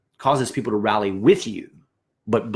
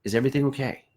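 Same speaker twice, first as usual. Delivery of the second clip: gentle caring question; 3 dB quieter, faster than usual. Shown as a demonstration. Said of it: "with a smile on your face, a very genuine heart".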